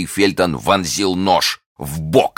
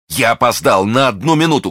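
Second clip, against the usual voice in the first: high, raised lament; anguished cry; 7 semitones higher, 3 dB louder than usual. A narrator's reading. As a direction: cry out in self-reproach. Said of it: "кричал он".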